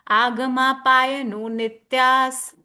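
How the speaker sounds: slow model recitation, "Agama" begins with long aa; long opening A. Shown as a demonstration. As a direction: stretch the first A of "Agama". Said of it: "a is having that line on the top".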